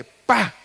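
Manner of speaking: a loud, high "pah" for the snake bite; sharp shouted bite noise; shouted strike sound. Retold or imitated.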